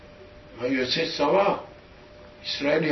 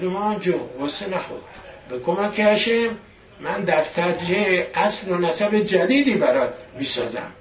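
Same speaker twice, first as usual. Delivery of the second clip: lightly voiced child, higher and louder; raised, emphatic voice imitating a child's vow; child's earnest pledge; 4 semitones higher, 4 dB louder than usual. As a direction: promise mother as a determined young boy, lightly acted. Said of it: "بچه ده سالش بوده".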